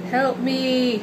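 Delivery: high, loud little alien cry; alien crying for help. Pretend. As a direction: squeal it like a tiny trapped alien. Alien in drawing cries out.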